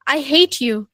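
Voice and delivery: a mild, hostile "I hate you"; negative tone. Shown as a demonstration. Teacher demoing a negative caller to the class, mildly hostile. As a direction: say it like you mean it, coldly. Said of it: "मैं बहुत negative tone में बात कर रही हूँ".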